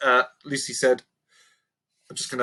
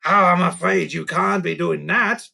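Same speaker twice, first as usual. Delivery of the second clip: a touch more serious; 5 semitones higher, 3 dB louder than usual. Acted. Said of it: "sounding a little more serious".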